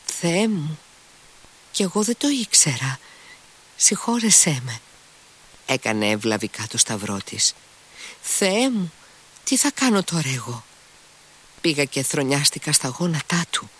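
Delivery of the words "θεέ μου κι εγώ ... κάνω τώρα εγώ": a much higher, contrite woman's voice; Grushenka, dismayed. A narrator's reading. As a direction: beg forgiveness in sudden dismay. Grushenka dismayed, crossing herself. (Γκρούσενκα, ταραγμένη και μετανιωμένη, πολύ πιο ψηλά)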